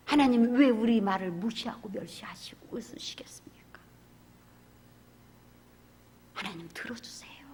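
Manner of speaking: pleading prayer. Retold or imitated. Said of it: "하고 제가 막 그랬어요".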